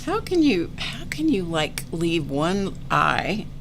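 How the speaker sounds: asking herself in mock disbelief; disbelieving self-quote. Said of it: "I'm like".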